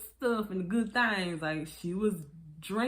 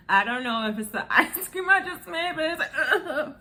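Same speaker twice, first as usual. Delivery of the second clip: laughing through discomfort; 8 semitones higher, 7 dB louder than usual. Real, not acted. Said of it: "something's going on in my belly right now".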